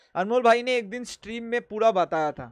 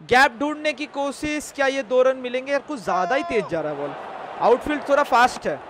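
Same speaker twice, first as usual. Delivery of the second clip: higher-pitched running cricket commentary; live play-by-play; 4 semitones higher, 4 dB louder than usual. Acted. Streamer follows the ball for viewers, live commentary voice. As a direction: call the play as it happens, pitched up.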